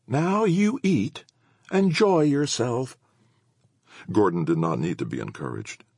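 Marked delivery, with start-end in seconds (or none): 0.1-3.0 put-on high, very slow motherly old lady; old woman voice. A narrator's reading. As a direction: coax him to eat, slowly. Missus Howlett urging him.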